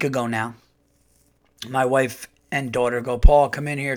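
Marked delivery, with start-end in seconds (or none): 3.2-4.0 loud call from the next room. Retold or imitated. Wife calling husband into the room, loud call. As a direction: shout it to get him in here.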